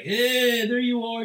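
high sleazy party greeter; creepy greeting. Retold or imitated. Acting out a groper at party.

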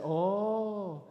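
gentle, drawn-out imitation of a pastor. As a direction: imitate a gentle-spoken friend. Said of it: "he's so gentle when he talks".

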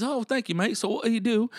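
high-pitched imitation of a British bloke; British accent. British brother asking the comedian his job, British accent. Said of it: "British brother".

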